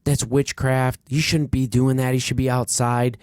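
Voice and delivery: mock yell of outrage at a kid; retold yelling. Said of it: "He's yelling".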